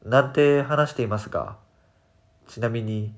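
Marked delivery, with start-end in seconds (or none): none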